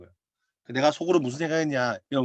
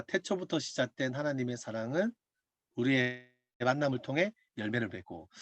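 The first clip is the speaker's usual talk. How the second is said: slow, much softer recited lyric; soft hymn lyric; 8 dB quieter than usual. Retold or imitated. Recalling the hymn words, hushed slow recital. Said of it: "그 노래 가사가".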